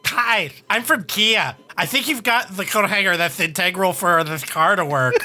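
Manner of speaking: Kia voice. Acted. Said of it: "as Kia voices go".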